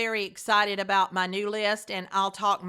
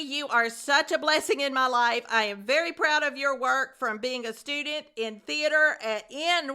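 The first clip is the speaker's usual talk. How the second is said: excited gushing; 4 semitones higher, 4 dB louder than usual. Real, not acted. Gushing thanks to former student.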